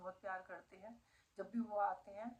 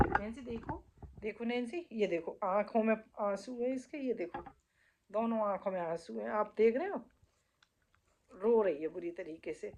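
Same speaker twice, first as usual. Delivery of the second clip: much louder, urgent showing of the tears; loud calling; 10 dB louder than usual. Real, not acted. Calling Nancy and showing viewers her tears, loud and urgent. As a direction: call the dog and push it at the camera, loud.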